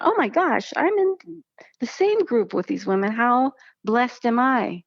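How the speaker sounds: high, amazed gush; thrilled disbelief. Retold or imitated. Retold thought, amazed.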